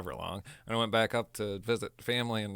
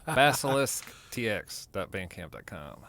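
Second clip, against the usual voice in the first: slow, deliberate full name; careful corrected take of the band name; slow careful retry. Real, not acted. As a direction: say it slowly to get it right. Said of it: "good son of a bitch".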